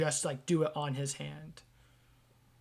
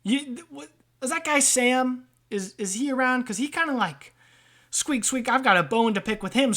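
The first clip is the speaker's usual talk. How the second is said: lightly voiced grumbling rat; hint of a wiseguy rat with a grievance; aggrieved rat trader; 6 semitones higher, 5 dB louder than usual. Rat complaining to customers about Sam, mildly aggrieved.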